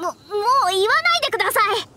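whiny, teary plea to stop; tearful plea. Acted. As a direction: beg him to stop, voice about to break. Begging him to stop saying it.

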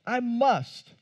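"I must" said with weight on "must"; stress on must. Shown as a demonstration. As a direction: lean hard on "must" as a firm command. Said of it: "Strong imperative word".

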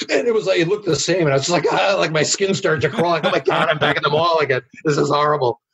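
comic 'oh no, not again' panic; mock horror. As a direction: relive being creeped out, half laughing. Retells panic at identical mall.

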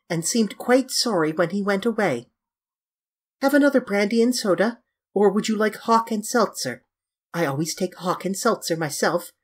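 put-on airy young Dorian. Dorian chatting to his guest about a servant, airy.

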